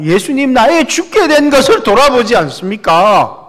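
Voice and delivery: high, loud desperate cry for help; pleading prayer. Acted. Disciples crying out to sleeping Jesus, loud desperate plea. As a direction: wake him up with a frantic plea. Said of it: "기도로 예수님을 깨웁니다".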